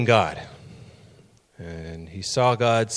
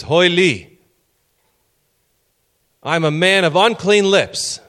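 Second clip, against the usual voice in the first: higher, louder anguished cry; Hebrew cry of woe; 7 semitones higher, 6 dB louder than usual. Retold or imitated. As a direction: wail it like a man undone. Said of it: "In Hebrew, he says".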